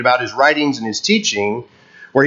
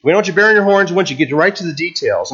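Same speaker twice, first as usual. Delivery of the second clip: impatient interrogators; 4 semitones higher than usual. Retold or imitated. Voicing Luther's interrogators.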